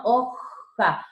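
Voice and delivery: HOJA with a scraped, throaty J; rasping J. Shown as a demonstration. Teacher repeating the example for students, rasping J. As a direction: rasp the J in HOJA. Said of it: "Dense cuenta que raspa".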